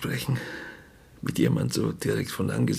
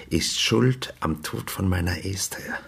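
angry accusation; 3 semitones higher than usual. Acted. Grieving father accuses the dentist before the inspector, rising anger. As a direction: pile up the blame on "schuld".

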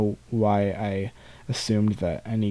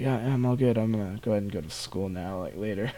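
playing it cool; 4 dB quieter, faster than usual. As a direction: act like nothing's wrong, hurry off. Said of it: "playing it cool".

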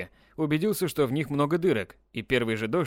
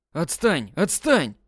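rising shout, second one louder; 3 semitones higher, 5 dB louder, much slower than usual. Acted. Styopa shouting at Dimka to leave him alone. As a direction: yell it to push him away. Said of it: "закричал Стёпа".

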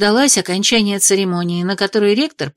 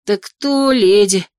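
mumbling through a full mouth; slower than usual. Acted. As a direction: talk around a mouthful of food. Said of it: "прошамкала с набитым ртом".

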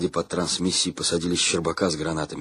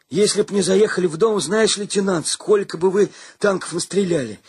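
high, excited boastful tale; boastful soldier; 9 semitones higher, 4 dB louder than usual. A narrator's reading. Gromykhalo bragging to the lieutenant, high excited voice. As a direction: brag breathlessly about the fight.

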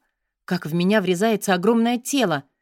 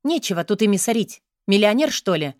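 angry scolding. Acted. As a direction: scold him with a sneer. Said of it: "выпаливаю сердито".

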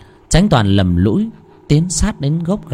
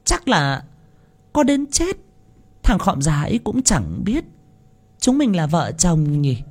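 wicked gloating; 9 semitones higher, 3 dB quieter than usual. Acted. Wife gloats with lover.

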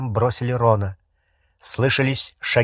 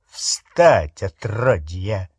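rough barked order; 4 semitones lower, much slower than usual. Acted. Thugs seize Harry in tent.

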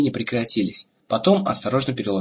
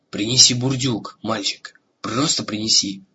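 slow, tired, sighing voice; weak and bedridden. Acted. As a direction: ask wearily from a sickbed. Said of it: "вздохнул Бром". (слабый усталый голос)

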